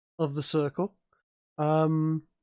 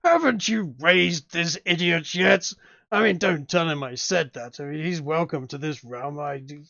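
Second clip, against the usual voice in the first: dopey cartoon bellow; 3 dB louder than usual. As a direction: bellow it like a dim-witted demon. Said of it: "a booming voice behind you of Gargarex going".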